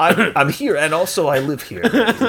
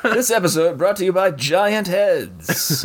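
commercial voice; slower than usual. Pretend. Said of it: "I thought that commercial was over".

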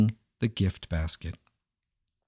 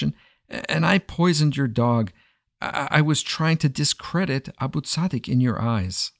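pleading for mercy; 4 semitones higher than usual. Acted. Zorayek begs the king to spare him from madness, frantic pleading. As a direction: plead for your life before the king.

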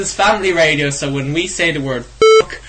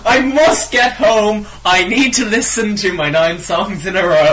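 mock listener voice; 5 semitones higher, 3 dB louder than usual. Mocking a radio listener.

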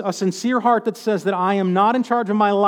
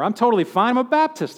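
smug self-assurance; 3 semitones higher than usual. Retold or imitated. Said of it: "tempting religious trapping here".

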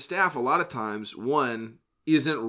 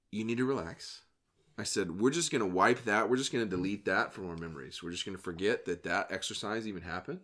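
softer, lower, soothing instructor voice; retold calm reassurance; 4 semitones lower, 6 dB quieter than usual. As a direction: quietly settle a nervous player, as retold. Calming a nervous auditioner in retelling.

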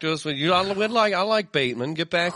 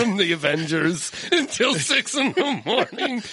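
laughing mock question; 5 semitones higher than usual. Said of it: "and just be like".

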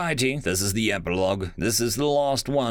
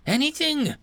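alien crying out. Acted. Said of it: "cried the liaison".

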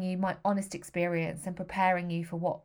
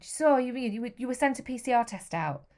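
impatient nurse; 5 semitones higher, 3 dB louder than usual. Retold or imitated. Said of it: "She tutted and huffed".

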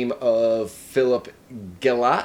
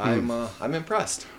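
newscaster voice; 6 dB quieter than usual. Acted. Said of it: "newscaster voices on today".

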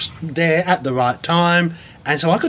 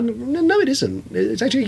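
much higher, emphatic objection; indignant protest; 8 semitones higher than usual. Retold or imitated. Objecting to publishers who say close enough, much higher and emphatic. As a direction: jump in to set the record straight. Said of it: "It's like".

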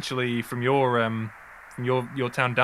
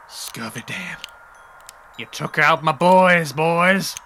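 slow, menacing villain drawing out each line; villain showdown speech; 3 semitones higher, slower than usual. Acted. Outlaw Anton threatening the boys at the showdown, slow and menacing. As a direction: loom over them like a gunslinger at high noon.

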